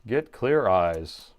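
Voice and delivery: slow deadpan ad line; monotone commercial voice. Retold or imitated. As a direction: drone the slogan dead flat. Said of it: "the dry eyes commercial guy".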